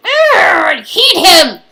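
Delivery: slow, loud laughing shout. Acted. Vents about her ex with a slow laughing shout. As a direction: let it burst out, laughing and furious.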